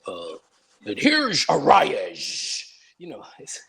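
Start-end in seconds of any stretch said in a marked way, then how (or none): 0.9-2.6 slow, drawn-out announcer call; mock announcer voice. Mocking a ballpark announcer to a friend, slow and drawn out. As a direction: ham up a pompous announcer, slowly. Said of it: "the Padres announcers are like".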